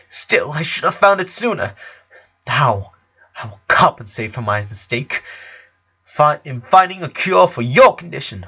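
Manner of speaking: put-on a small girl insisting on her guilt; guilty little genius. A narrator's reading. Lisa voiced as child.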